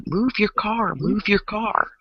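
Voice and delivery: man yelling at the window; high mock yell at a stranger; mock angry yell. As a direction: imitate an angry man demanding.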